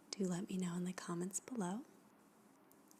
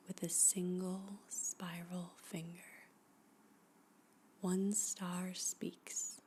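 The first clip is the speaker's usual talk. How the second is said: hushed poetry reading. Acted. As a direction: read each line like a guided meditation, letting it settle. Reads a poem aloud, hushed and slow.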